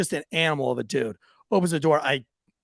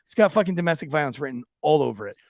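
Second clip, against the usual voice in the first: laughing rant; 3 semitones higher, faster than usual. Retold or imitated. Cop retelling his white-wine theory, fast and laughing. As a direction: laugh through the pronouncement. Retold rookie lecture, laughing.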